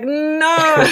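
sharp high flat "No"; mock-firm rejection; flat refusal. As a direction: shut him down with a loud, high no. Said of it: "It's like".

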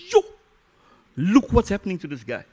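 high, amazed aside; onlooker's disbelief. Retold or imitated. Man outside of himself watching, high-pitched amazement. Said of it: "outside of yourself saying".

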